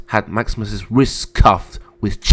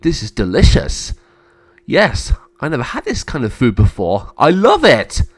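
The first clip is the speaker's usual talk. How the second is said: delighted character; 3 semitones higher than usual. Acted. Guest praising a new kind of food, delighted. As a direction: savour it, then burst out happily.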